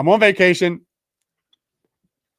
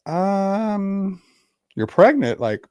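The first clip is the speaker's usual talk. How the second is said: higher and louder, rising to a stunned okay; hearing his ex is pregnant, stunned; stunned disbelief; 8 semitones higher, 6 dB louder, slower than usual. Retold or imitated. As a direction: sound floored by the news. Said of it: "I'm like".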